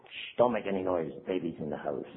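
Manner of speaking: mock hush. Playing the baby to manipulate others, mock hushed. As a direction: tiptoe the words like a baby sleeps. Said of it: "Play baby".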